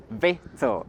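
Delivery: "Victual" said as VEH-toh, the c silent; VICTUAL said "vittle". Shown as a demonstration. Teacher models the word for spelling, "Victual" as VET-ul. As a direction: say "Victual" in two syllables, VET-ul. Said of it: "That's how we pronounce it".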